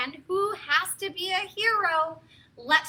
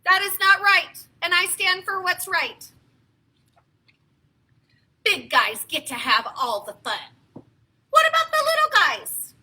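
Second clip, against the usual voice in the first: Gerald; 4 semitones higher, 6 dB louder than usual. Acted. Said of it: "said Gerald".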